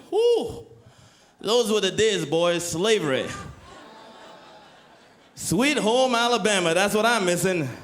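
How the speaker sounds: lightly voiced old man reminiscing; nostalgic old man. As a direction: play a wistful old guy on a porch.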